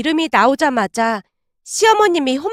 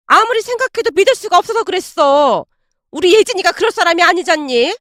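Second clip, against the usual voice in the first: put-on defensive older mother, pitched up; mother-in-law, higher voice; 4 semitones higher than usual. Mother-in-law defending herself to her son, higher defensive voice.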